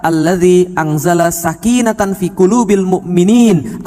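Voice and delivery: slow, drawn-out Arabic verse; Quran recitation. Acted. Preacher quoting scripture to his congregation, slow Quran recitation. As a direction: recite the verse with long, held vowels. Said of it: "Coba kita lihat di dalam Al-Quran".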